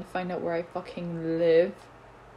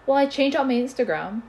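mock whiny complaint; 4 semitones higher, 5 dB louder than usual. Mocking the person who complained.

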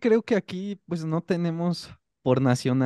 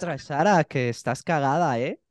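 mock Castilian Spanish accent; imitating Spaniards; 2 semitones lower than usual. Shown as a demonstration. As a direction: play at being from Spain. (imitando el acento de España)

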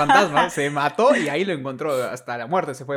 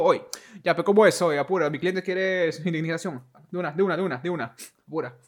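a hint of a pushy lawyer, a bit louder; ghost lawyer; 4 semitones higher, 3 dB louder than usual. Ghost lawyer demanding compensation, lightly voiced pushy tone. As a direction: hurry them along like a pushy lawyer. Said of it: "un fantasma, le dijo".

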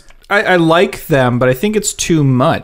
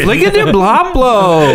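fake Simlish gibberish; 6 semitones higher, slower than usual. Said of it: "now we're just doing Simlish".

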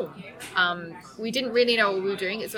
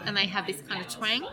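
Australian twang; 4 dB quieter than usual. Shown as a demonstration. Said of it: "they just talk like this".

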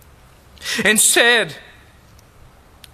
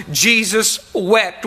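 slow, weighty reading of Jesus wept; measured scripture emphasis; slow emphatic reading; slower than usual. Shown as a demonstration. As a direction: let Jesus wept land slowly, each word weighted.

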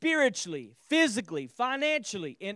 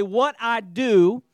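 call and response; 7 dB louder than usual. Shown as a demonstration. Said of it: "Somebody say".

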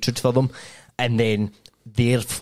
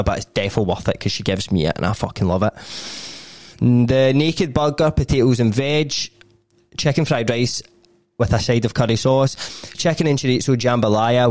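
punchy podcast ad read, drawing out the product names; casual, sweary menu plug; sponsor ad read. Real, not acted. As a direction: run through the menu like a host plugging a sponsor. Reads a sponsor's meal menu.

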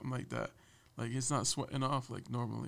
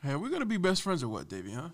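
imitating boss; 3 semitones higher, faster than usual. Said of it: "He's been going".

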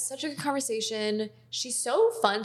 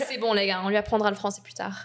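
speaking French; 4 semitones lower, much faster than usual. Real, not acted. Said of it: "I said it's okay, guys".

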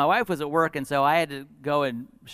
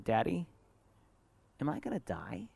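very soft imitation of a scared child; little tiny voice; 8 dB quieter than usual. Hurt daughter asking her father, tiny frightened voice. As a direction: ask in a small, hushed voice. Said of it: "this little tiny voice".

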